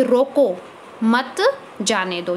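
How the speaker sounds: रोको stressed, then a pause before the rest. Shown as a demonstration. Teacher demonstrating emphasis to students, stress on रोको. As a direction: lean on रोको, let मत जाने दो drop. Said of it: "किसी शब्द पर जोर देकर बोलना".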